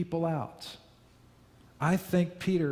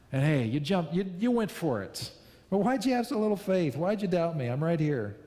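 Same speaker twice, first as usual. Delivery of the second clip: supportive Jesus; 4 semitones higher than usual. Retold or imitated. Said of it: "almost with a laugh in his voice".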